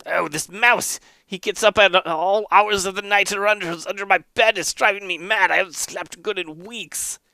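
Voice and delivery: high-pitched weary griping; exasperated sleepless monk. Acted. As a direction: complain high, driven mad by a pest. Sleepless monk complains about mouse.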